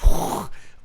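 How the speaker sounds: breathy rush of falling snow; a voiceless whoosh for tumbling snow; imitated avalanche whoosh. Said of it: "it was like an avalanche".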